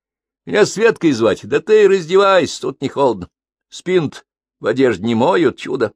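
lightly voiced playful young woman; teasing, inviting girl. Svetka voiced in story.

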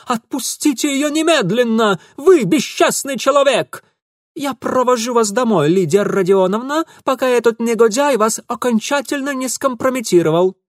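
high, loud righteous scolding; the gallant rescuer, furious; indignant outburst. A narrator's reading. Ingvar ordering Mitya off Lidia, outraged.

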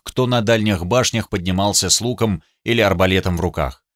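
ordinary delivery, nothing marked

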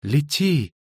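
high, falling command; entity through a girl. A narrator's reading. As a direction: order her away in an eerie voice. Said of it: "проговорил голос устами девочки".

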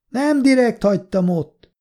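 high-pitched raspy protest; raspy shouted excuse. A narrator's reading. Drunk woman excusing herself to the man, raspy shout. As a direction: shout back in a high, rasping voice. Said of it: "kiabált vissza reszelős hangon".

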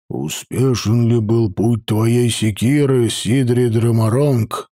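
гул из-под забрала, медленно и ниже; глухо прогудеть сквозь шлем; inside a knight helmet. Acted. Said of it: "прогудел из-под забрала Хродер". (гудящий голос из-под шлема)

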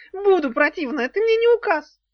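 very high, loud defiant squeal; shrill defiance. A narrator's reading. Worm defying Daf. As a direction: refuse her, petulant.

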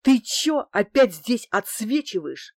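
mildly aggressive puzzled question; baffled irritation. A narrator's reading. Thug ready to lunge asks why she's back, baffled irritation. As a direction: challenge her, somewhat baffled. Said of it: "спросил Герыч с непониманием".

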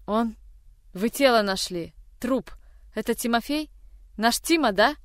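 breathless, climbing panic; rising panic. Acted. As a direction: panic rising toward a cry. Sister panics about brother's death.

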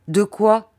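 short sharp question; brusque. Acted. Aunt curtly cutting off the doctor, brusque. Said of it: "dit brusquement ma tante".

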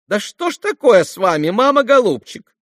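высокий капризный девичий голос; дразнит мать тонким голоском; капризная девочка. A narrator's reading. (капризная Лиз, высоко и громче)

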